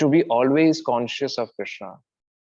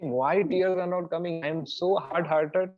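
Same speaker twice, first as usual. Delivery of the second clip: slow lament; 4 semitones higher, slower than usual. Retold or imitated. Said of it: "so you should think".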